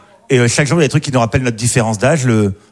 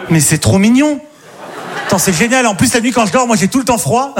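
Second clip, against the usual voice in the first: put-on excited girl voice; 7 semitones higher than usual. Girl's enthusiastic imagined reply.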